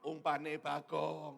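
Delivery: very slow, drawn-out comeback; gloating retort. Retold or imitated. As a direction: stretch each word out to rub it in.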